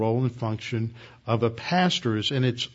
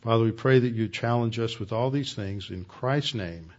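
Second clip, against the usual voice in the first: closing prayer. Acted. Closing prayer after bowing heads.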